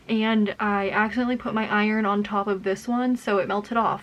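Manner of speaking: muffled behind a cloth mask; talking through mask. Real, not acted. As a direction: speak through a face mask. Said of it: "why am I talking with my mask on".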